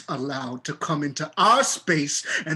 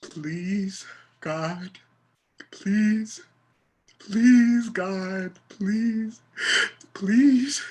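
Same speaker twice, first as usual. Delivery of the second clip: desperate prayer building; 6 semitones higher, much slower than usual. Acted. Praying desperately.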